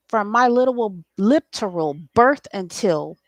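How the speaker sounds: broken off. Real, not acted. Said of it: "no, I can't even say that".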